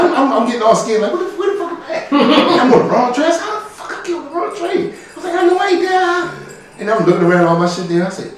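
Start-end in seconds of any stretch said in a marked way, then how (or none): 1.1-6.3 very high, soft mock panic through laughter; laughing panic. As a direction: replay the fright while cracking up. Panicking lost on train.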